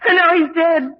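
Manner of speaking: fighting back tears; tearful. Acted. Grieving daughter accusing her aunt, close to crying. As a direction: voice breaking on the words.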